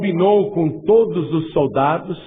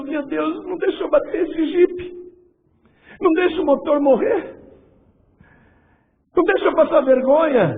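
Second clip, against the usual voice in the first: anxious prayer; 13 semitones higher than usual. Retold or imitated. Recruit praying while driving.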